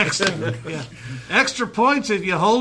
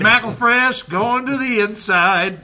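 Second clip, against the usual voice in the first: mock race call. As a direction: call the race, stretching each phrase. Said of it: "Cameron and McElfresh just left".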